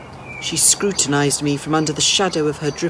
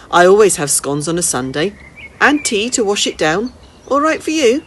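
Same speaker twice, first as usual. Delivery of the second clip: put-on an old lady teasing a runaway boy, then inviting him in; lightly voiced old lady; 3 semitones higher, 5 dB louder than usual.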